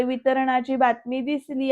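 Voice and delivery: slow schoolchild reading; resumed reading aloud. Retold or imitated. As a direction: imitate a pupil carefully reading word by word. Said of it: "ती मुलगी पुढे वाचायला चालू करते".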